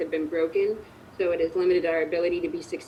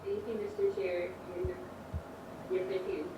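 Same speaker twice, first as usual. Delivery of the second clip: underwater; 12 dB quieter than usual. Real, not acted. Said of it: "You sound like you're underwater".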